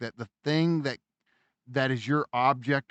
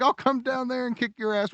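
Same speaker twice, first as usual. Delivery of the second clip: mock angry yell; 9 semitones higher than usual. Neighbour yelling back.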